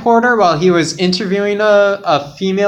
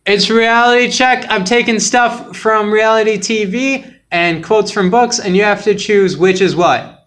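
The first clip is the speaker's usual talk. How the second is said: speaking up, a bit louder; louder with attitude; 5 semitones higher than usual. Real, not acted. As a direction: pushes the voice out with some heat. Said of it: "I sense a little bit of an attitude there".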